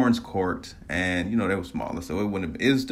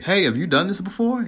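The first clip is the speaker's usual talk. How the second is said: put-on higher-pitched go at an Australian accent; attempted Aussie accent; 10 semitones higher than usual. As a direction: imitate an Australian stranger, badly. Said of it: "in that Aussie accent, I can't do it".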